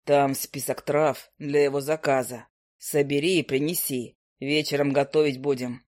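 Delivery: a grumpy bird drawling down low; low owl familiar. Acted. Owl familiar gives orders.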